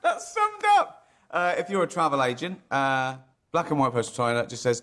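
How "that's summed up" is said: high, squealing words through laughter; helpless laughter. Real, not acted. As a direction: crack up while talking. Cracking up at "China, dreadful.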